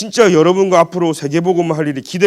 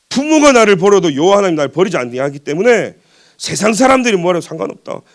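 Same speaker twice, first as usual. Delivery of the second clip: raised, forceful preacher's declaration; emphatic preaching; 3 semitones higher, 4 dB louder than usual. Real, not acted. Preacher declaring his trust in God despite people, emphatic. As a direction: declare it firmly to the congregation.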